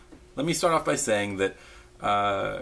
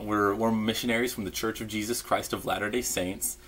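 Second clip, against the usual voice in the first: missionary spiel; 2 semitones higher than usual. Retold or imitated. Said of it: "you'll say a spiel".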